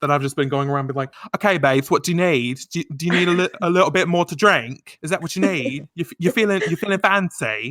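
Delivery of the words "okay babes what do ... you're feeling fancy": bad, over-the-top Essex accent, pitched high. Telling a co-host how she goes around imitating Chloe in a terrible Essex accent. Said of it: "I just love doing that accent".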